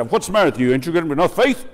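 harsh scolding God. Pretend. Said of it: "they see God is standing back there and say".

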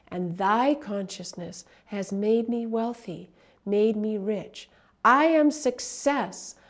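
slow, fervent prayer-like recitation; devotional affirmation. Acted. Teacher reciting an affirmation to listeners, slow and fervent. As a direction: intone each line like a sacred vow.

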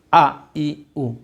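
আ, ই, উ sung out slowly and clearly; drawn-out vowel demo. Shown as a demonstration. Teacher to children, modelling vowel sounds: clear drawn-out vowels. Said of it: "teacher demonstrates vowel sounds".

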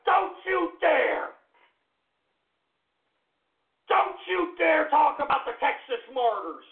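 hammed-up shout defending the Texas Martyrs; hammed-up indignation. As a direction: drag out the warning like a riled Texan. Repeated indignant warning.

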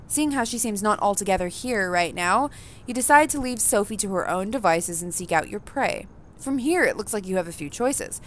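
even, measured narrator read; story narration. A narrator's reading. Reading the game's narration to the audience, evenly. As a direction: tell the player what they see and feel.

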